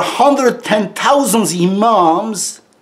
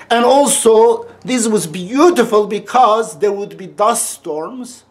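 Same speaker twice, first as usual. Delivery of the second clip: raised excited voice; 3 semitones higher than usual. Real, not acted. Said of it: "I'm yelling".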